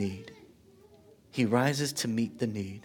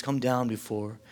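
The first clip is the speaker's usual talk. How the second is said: slow unvoiced plea, come down before my child dies; the father begs Jesus in a whisper; pleading whisper; 3 semitones lower, 6 dB quieter than usual. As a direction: beg him in a desperate whisper. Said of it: "he pleads".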